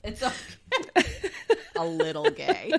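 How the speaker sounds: repeating it while laughing high. Real, not acted. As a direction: giggle through the words. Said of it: "That's good".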